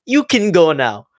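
slow imitated Indian-sounding accent. Embassy man lets students go, slow imitated Indian-sounding accent. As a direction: release them slowly in a put-on Indian-sounding accent. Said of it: "there's an Indian guy telling them to leave".

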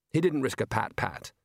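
usual speaking voice

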